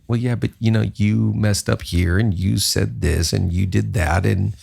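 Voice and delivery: low, teasing scold of himself; mock self-scolding. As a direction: wag a finger at your own reflection. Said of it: "look me in the mirror and go".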